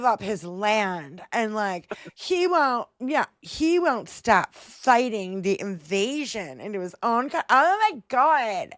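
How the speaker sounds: put-on slow, drawn-out Valley Girl whine; mock Valley Girl. Parodying complaints that Zelensky won't give up, mock Valley Girl. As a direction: stretch it out like an exasperated Valley Girl. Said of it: "turned into a Valley Girl when they speak".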